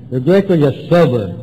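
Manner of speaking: firm, measured dictation; dictating. Retold or imitated. Sponsor dictating to the newcomer, dictating firmly. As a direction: give the next item to be written. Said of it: "you write and I'll dictate".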